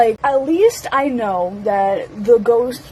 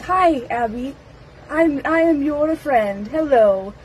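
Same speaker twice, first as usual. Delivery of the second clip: imitating a halting animatronic greeting; lightly robotic, measured word by word; robotic speech; 4 semitones higher than usual. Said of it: "robotic they speak".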